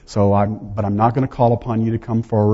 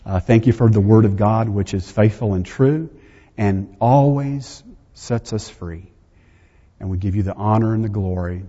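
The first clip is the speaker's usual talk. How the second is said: lower, even-toned spoken prayer; closing prayer; 3 semitones lower than usual. Real, not acted. Preacher thanking God for the day to close, reverent prayer. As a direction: pray aloud, settling lower toward the amen.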